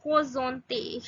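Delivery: "présente" drawn out with a throaty, h-like R; French R. Shown as a demonstration. Teacher shows learners how French R differs, h-like R in "présente". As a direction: stretch "présente", R sounded like an h. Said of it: "R is pronounced as ho".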